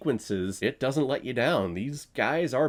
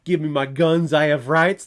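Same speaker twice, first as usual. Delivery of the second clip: louder, higher mock demand from a defiant kid; mock angry demand; 3 semitones higher, 8 dB louder than usual. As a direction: bark it like a teen insisting on his rights, hammed up. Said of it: "There I go again".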